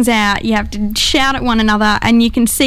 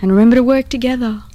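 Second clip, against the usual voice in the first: calm computer announcement voice; spaceship voice. Acted. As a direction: read it like the ship's AI. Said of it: "in your spaceship voice".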